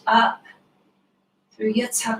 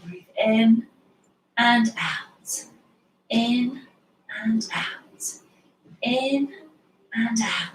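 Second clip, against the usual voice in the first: short, brisk "and out"; quick earth time; 3 dB quieter, slower than usual. Shown as a demonstration. Quick earth-time breath cue for the kids. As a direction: snap through "and out" quickly, earth speed. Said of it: "Now we'll do it in earth time".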